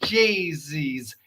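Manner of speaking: breathy whisper under the breath. Real, not acted. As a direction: mutter it without voice. Under the breath after exclaiming.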